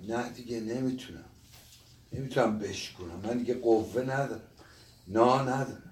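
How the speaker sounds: understated lump in the throat; choked up. Acted. Old man admitting he can't break the sugar, choked up.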